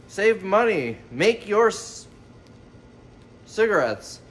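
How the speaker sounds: reads the label word by word, unsure; halting read-out. Real, not acted. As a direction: sound it out haltingly as if the spelling looks wrong. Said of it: "it didn't look like it spelled right".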